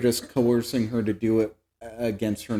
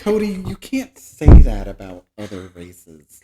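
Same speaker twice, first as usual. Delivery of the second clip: mock scolding; 3 semitones lower, 9 dB louder than usual. Mock scolding about race jokes.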